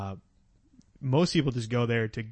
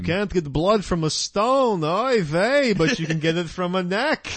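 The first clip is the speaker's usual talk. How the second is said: high, singsong mock Jewish vampire accent; Count Dracula, Jewish accent; 4 semitones higher, slower than usual. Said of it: "Count Dracula Jewish".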